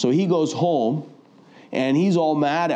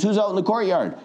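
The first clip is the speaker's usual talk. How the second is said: king calling out; 8 semitones higher than usual. Retold or imitated. King calling out in retold story.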